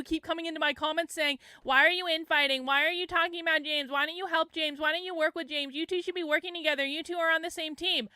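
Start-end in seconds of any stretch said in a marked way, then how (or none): 1.6-8.1 higher-pitched imitation of scolding commenters; mocking nagging. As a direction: reel off their complaints in a pestering run. Mimicking the commenters' repeated complaints.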